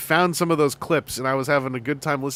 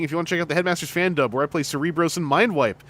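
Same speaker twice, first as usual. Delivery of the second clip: mock Albertan; 2 semitones higher than usual. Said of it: "Griff saying".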